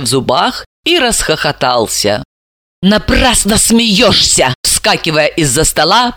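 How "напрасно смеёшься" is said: hissing. Acted. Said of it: "прошипела Далила".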